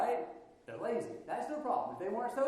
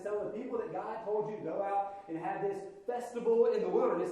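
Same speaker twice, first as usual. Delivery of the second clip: bossy Pharaoh; 5 semitones higher than usual. Pretend. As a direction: scold the troublemakers. Pharaoh scolding Moses and Aaron.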